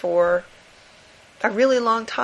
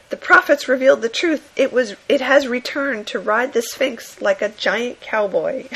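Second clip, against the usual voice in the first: mock comic-book prophet; 4 semitones higher than usual. Comic character announcing the monster's return, hammed-up. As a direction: proclaim the prophecy in hammy panic. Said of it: "another guy says".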